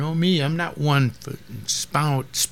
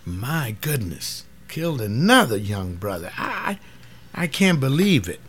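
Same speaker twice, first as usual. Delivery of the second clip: grieving dismay. Real, not acted. Grief at another police killing.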